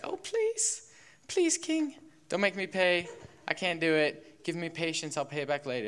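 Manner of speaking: high, pleading voice of a desperate debtor; begging debtor. Acted. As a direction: beg the king for mercy in a squeaky high voice. Debtor begs king in parable.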